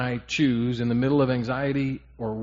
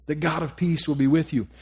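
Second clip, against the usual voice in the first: louder, ringing proclamation; emphatic second take; 4 semitones higher, 5 dB louder than usual. Acted. Pastor proclaiming God's promise to the congregation, emphatic. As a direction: declare it to the whole room.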